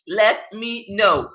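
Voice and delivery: slow it down and let it sink in; slow repeat. Real, not acted. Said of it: "y'all let me know".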